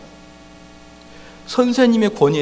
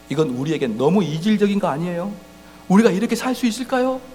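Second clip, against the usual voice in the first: ordinary talk, nothing marked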